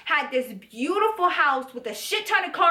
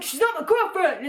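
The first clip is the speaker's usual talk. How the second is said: higher-pitched mock sibling retort; bickering brother; 5 semitones higher than usual. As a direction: imitate a brother arguing back. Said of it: "fucking fighting and bickering".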